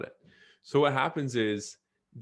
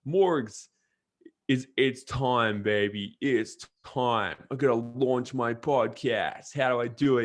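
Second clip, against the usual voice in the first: put-on thick New York accent; 3 dB louder, slower than usual. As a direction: hype it up like a Brooklyn buddy on the phone. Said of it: "He's got this thick New York accent".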